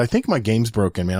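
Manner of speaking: usual speaking voice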